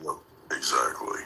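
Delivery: whisper. Real, not acted. Whispers in every line.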